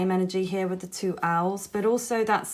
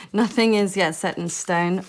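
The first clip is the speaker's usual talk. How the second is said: amused laughing. Real, not acted. Tarot reader amused by contradictory cards, laughing. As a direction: laugh first, then read out the card. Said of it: "explain why I'm laughing".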